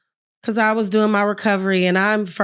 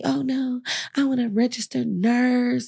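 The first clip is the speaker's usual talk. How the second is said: mock confident plans; 6 semitones higher than usual. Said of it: "But me".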